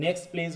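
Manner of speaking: "next please" run together as "neks pleez"; dropped t. Shown as a demonstration. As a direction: say "next please" softly without the t. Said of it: "টিটা বাদ পড়ে যাচ্ছে". ("next please"-এ t বাদ দিয়ে বলা)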